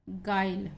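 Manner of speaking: गाइल said as "gail" with an ai sound; careful "ai" in गाइल; pronunciation demo. Shown as a demonstration. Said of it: "इसका जो उच्चारण है वो गाइल".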